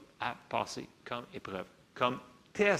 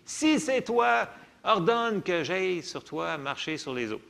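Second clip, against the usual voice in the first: Peter's bold request; 3 semitones higher, 5 dB louder than usual. Retold or imitated. Preacher voicing Peter's bold request.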